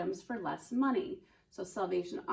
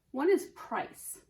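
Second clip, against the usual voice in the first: slow, stressed modelling of price; teaching a vocabulary word; 4 semitones higher, 4 dB louder, slower than usual. Shown as a demonstration. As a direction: say it slowly so the class can copy. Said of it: "Say it with me".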